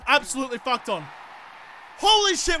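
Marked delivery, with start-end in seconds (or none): 2.0-2.6 surprised. Real, not acted. Surprise goal from his team.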